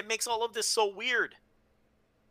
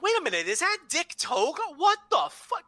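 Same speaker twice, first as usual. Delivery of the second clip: astonished disbelief; 9 semitones higher than usual. Retold or imitated. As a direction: re-enact waking to baffling news. Re-enacting waking up to the surprise.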